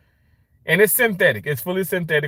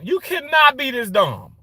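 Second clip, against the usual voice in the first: exasperated rant; 10 semitones higher than usual. Real, not acted. Ranting about dumb people.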